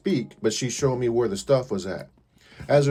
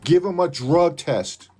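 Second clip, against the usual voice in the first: higher, louder and slow, hammering each word; emphatic demand; 6 semitones higher, 4 dB louder, slower than usual. Real, not acted. Demanding the owner drug test his staff, slow emphatic. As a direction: lay down the demand slowly.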